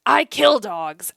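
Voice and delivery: slow, flat gruff delivery; a stranger's slow blunt confession; deadpan old man. Retold or imitated. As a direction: drop it slowly and matter-of-factly. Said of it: "And he goes".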